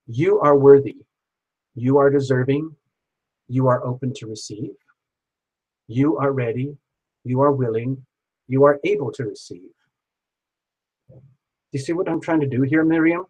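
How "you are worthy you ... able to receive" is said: measured, steady affirmations with a pause after each; spoken affirmations, one by one; affirmation read. Shown as a demonstration. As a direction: recite each line as a calm promise to her. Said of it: "it will sound like this".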